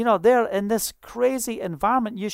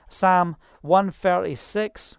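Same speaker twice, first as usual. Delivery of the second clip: Scottish accent; slower than usual. Real, not acted. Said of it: "the old Scottish accent for Sam".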